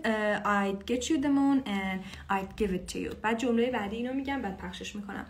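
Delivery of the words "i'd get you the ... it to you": slow lyric. Shown as a demonstration. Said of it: "If I could".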